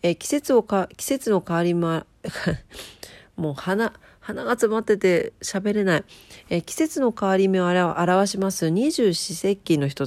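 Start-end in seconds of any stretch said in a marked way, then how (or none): 3.4-6.0 stuffy nose voice; words through a blocked nose. Real, not acted.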